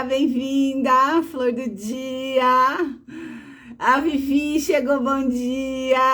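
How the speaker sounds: sing-song welcome with stretched endings; drawn-out greeting. Real, not acted. Streamer welcoming viewers as they join, drawn-out sing-song greeting. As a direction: draw out each welcome, lilting.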